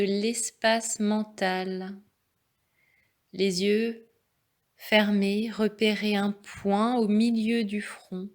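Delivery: calm, measured relaxation voice; guided meditation. Real, not acted. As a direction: guide them unhurriedly into stillness. Leads a yoga nidra.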